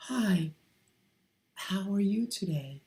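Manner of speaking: high feminine greeting. Shown as a demonstration. Testing a greeting on camera, feminine and high. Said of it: "slip into their feminine voice".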